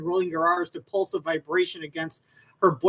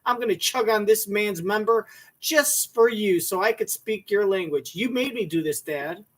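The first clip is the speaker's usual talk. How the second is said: lightly put-on daughter voice, mock-earnest; mocking daughter impression; 2 semitones higher than usual. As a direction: play up the daughter's voice a little to ridicule her. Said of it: "She was like".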